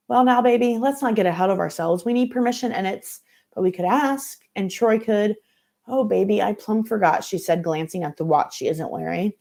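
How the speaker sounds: lightly voiced Southern mama; a hint of a nervous mother making excuses; flustered church mother.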